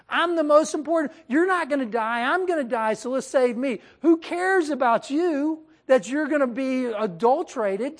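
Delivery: a hint of a pushy, selfish husband; selfish Abraham. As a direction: play him as a man looking out only for himself. Selfish Abraham voiced again.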